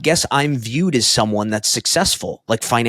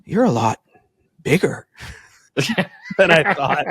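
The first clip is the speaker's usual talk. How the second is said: put-on French accent, high and laughing through it; playful French accent breaking into a laugh; 8 semitones higher than usual. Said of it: "he had a French accent".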